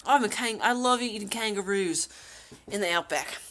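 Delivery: hammed-up outback Aussie; put-on Australian storytelling twang; Australian accent. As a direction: play the kangaroo-loving Australian. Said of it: "In an Australian accent".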